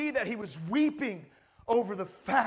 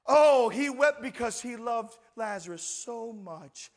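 mock sentimental; 3 semitones lower than usual. Mocking a misreading he then rejects.

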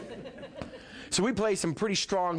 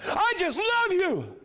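much higher, slow, drawn-out love you; heartfelt love line; 4 dB louder, slower than usual. Pretend. Preacher shows really telling someone love, slow drawn-out. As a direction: stretch the love out slowly and fully. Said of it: "when it's time to really tell them love".

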